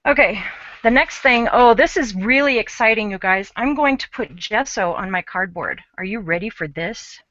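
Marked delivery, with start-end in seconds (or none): 1.5-7.2 mock excitement with emphasis on REALLY; poorly feigned sarcastic hype. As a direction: sell a dull step as thrilling. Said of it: "that was me being sarcastic".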